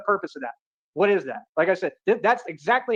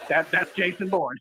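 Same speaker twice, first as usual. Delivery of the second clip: slow repeat. Shown as a demonstration. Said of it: "That's exactly what moment this is".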